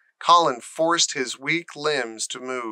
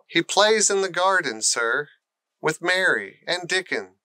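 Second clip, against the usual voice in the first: shaky voice; 4 semitones higher than usual. Acted. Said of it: "she said in a shaky voice".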